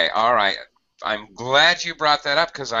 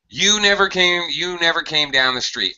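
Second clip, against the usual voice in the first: higher, accusing "never"; mock accusation; 8 semitones higher than usual. Shown as a demonstration. Teacher plays the accuser in a correction example. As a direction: complain that they never showed. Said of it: "we're making a correction".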